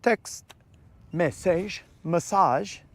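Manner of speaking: hammed-up French accent asking the phone to text; jokey French accent talking to the phone; mock French accent. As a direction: poke fun at a friend with a put-on French accent. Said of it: "I just assume you have a French accent".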